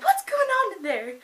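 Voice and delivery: imitated mother, high and loud; high-pitched mock parental holler; mom calling in. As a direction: call through the door like a mom. Imitated mom calls into the room.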